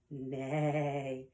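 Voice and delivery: drawn-out spoken horse neigh. Acted. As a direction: imitate a horse with one long, low-key neigh. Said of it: "and a horse says".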